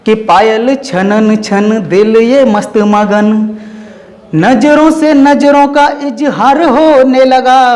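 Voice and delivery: slow, melodic verse recital; lilting recitation of a chhand; poem recitation. Acted. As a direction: savour each line like a romantic poem.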